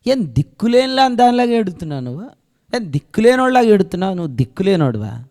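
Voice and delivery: high, pressing rebuke as the angels; angels questioning Mary. Acted. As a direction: chide her like a stern angel. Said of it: "దేవదూతలు మరియను".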